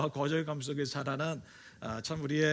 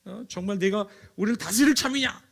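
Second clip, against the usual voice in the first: 화난 형들; 3 semitones higher, 5 dB louder than usual. Acted. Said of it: "막 화를 내면서".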